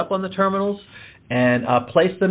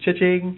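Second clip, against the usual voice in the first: imitated cash-register ring, higher pitched; higher-pitched mimicked cha-ching; cha-ching sound; 4 semitones higher than usual. Shown as a demonstration. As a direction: voice a till ringing up a sale. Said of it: "it should make a cha-ching sound".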